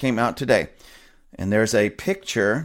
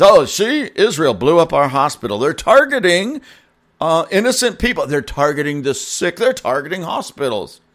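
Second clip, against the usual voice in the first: raised, whiny mock outrage; mocking indignant Gazans; 4 semitones higher than usual. Mocking Gazans crying foul over a hospital, raised and whiny. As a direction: sneer it like a fake accusation.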